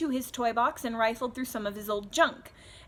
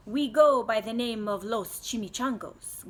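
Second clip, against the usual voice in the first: 1 growling bandit; 3 dB louder than usual. Acted. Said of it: "growled Don Diego".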